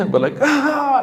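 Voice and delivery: high mock wail with a laugh in it; demonstrated loud crying. Shown as a demonstration. Imitating crying heard in the night, half-laughing mock wail. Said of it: "like crying out loud".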